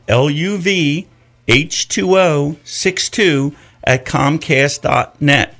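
slow, careful repeat; repeated slowly. Shown as a demonstration. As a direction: say it again slowly. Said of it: "That's my email address".

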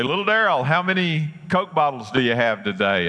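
put-on a light sketch of a kindly old store owner; lightly voiced old man greeting a regular; old storekeeper.

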